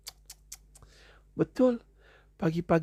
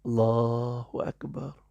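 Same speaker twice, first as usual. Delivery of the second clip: slow and steady; 3 semitones lower, slower than usual. Shown as a demonstration. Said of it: "Slow and steady".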